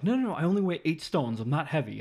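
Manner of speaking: high, loud, rapid mock protest; hammed-up high-pitched objection; indignant protest. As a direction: imitate someone offended and insisting. Retold woman insisting she isn't heavy.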